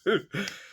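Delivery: squeaky high laugh; high burst of laughter. Real, not acted. Recalling the cringe moment, high burst of laughter.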